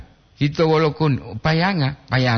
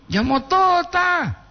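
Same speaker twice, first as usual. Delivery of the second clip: mock high echo; slower than usual. Shown as a demonstration. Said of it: "repeats word high and slow".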